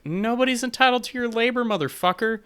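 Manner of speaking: loud, high, mock shouting; high-pitched mock yell. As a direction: yell it like a retort. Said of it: "And I'm just like".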